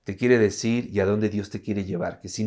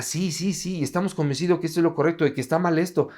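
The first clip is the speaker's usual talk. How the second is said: quick, higher-pitched imitated agreement; eager assurance; 4 semitones higher, faster than usual. Couple assuring counselor they want discipleship, imitated eagerness. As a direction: reassure hurriedly, as if fully convinced. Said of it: "¿de veras quieren ser discípulos?".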